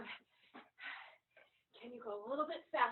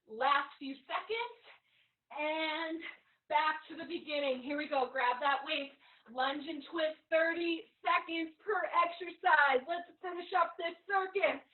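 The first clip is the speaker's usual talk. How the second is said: halftime pep speech; 3 semitones higher, 5 dB louder than usual. Real, not acted. Trainer pushing class to finish.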